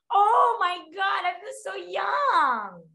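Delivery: high, drawn-out playful gush; gushing delight. Acted. Teacher thrilled by Gen Z words, high gushing delight. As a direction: squeal slowly with mock-thrilled delight.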